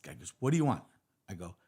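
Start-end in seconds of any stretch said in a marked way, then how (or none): 0.4-0.8 louder, higher, fed-up retort; exasperated reply. Acted. SWAT cop answering a pestering colleague, exasperated. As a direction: act out a cop bothered once too often.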